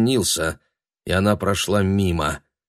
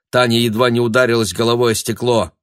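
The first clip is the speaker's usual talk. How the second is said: ordinary delivery, nothing marked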